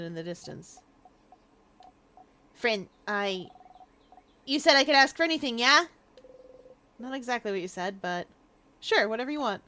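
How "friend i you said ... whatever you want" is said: high, loud and pleading; eager girl character. Acted. Bonnie begging friend to teach her fighting, high and eager. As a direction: talk herself up, rushing with eagerness.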